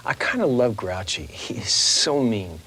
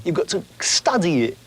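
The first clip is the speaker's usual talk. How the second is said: higher, lilting Cockney; Cockney accent; 6 semitones higher than usual. Shown as a demonstration. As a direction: coach someone in a Cockney accent. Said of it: "So you have to talk like this".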